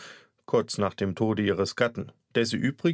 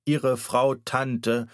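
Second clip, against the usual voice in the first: hesitant doctor; much slower than usual. Acted. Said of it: "er schluckte mehrmals".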